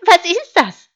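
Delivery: high, loud sheep question; curious sheep. Acted. Sheep spotting the wolf's gold watch, curious bleat. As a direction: bleat it out in wonder.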